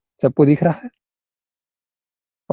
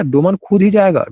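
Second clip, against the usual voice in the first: slow, insistent खुद ही; stress on खुद ही; 3 semitones higher than usual. Shown as a demonstration. Teacher showing the second sentence, stressed खुद ही. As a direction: lean on खुद ही, drawing it out. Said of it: "जोर देकर बोल रहा है".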